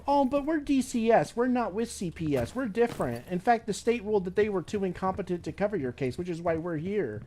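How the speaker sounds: high mock voice, easing back down; hammed-up prissy caseworker, starting way up. Caseworker claiming they're not CPS, high mocking imitation. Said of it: "that fucking bitch was like".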